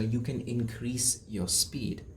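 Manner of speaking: slow, soft and deliberate; slow demo. Shown as a demonstration. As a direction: drag each word out slowly. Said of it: "Control your speed".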